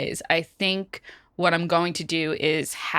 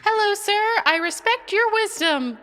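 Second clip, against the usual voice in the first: put-on much higher, sweetly respectful girl; high polite voice; 13 semitones higher than usual. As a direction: pitch way up, overly polite. Cammy greets the old avocado.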